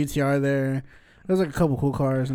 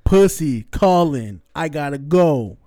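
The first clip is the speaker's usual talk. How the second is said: mock eager shout; 5 dB louder, slower than usual. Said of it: "he was like".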